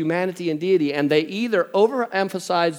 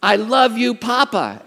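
higher, louder mock-stern prompting; mother dictating words; 7 semitones higher, 5 dB louder than usual. Mother telling toddler what to say, imitated firm prompting. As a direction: model the phrase as a firm order. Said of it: "Katie goes".

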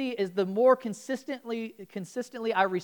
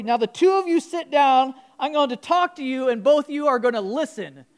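with real authority; 2 semitones higher, 5 dB louder than usual. Retold or imitated. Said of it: "said with real authority".

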